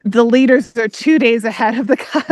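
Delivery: breaking into a laugh at the end; can't keep a straight face. Real, not acted. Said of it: "I can't even say it with a straight face".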